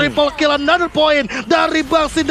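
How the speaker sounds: fighting game announcer. Real, not acted. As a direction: call the multikill like an announcer. Triple kill hype call.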